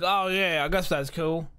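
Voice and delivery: put-on bumbling idiot boyfriend. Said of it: "her bumbling idiot boyfriend".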